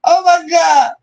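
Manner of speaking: high, laughing oh my God. Real, not acted. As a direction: squeal it through laughter. Overcome with laughter.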